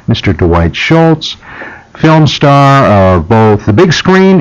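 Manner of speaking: measured host delivery, key words stretched; radio promo read. Real, not acted. Host inviting listeners to a UFO event, promo read. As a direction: sell it to listeners, deliberate and emphatic.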